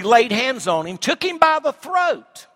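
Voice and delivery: preacher's slow, high, shouted dramatic reading; dramatic cry. Acted. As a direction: shout it out as he seizes him.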